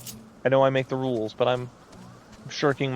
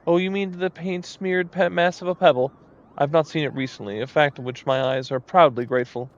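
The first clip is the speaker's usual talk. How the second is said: dowager duchess; 2 semitones higher than usual. Acted. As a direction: sniff at the pebble like a grand dame. Snooty moogle critic.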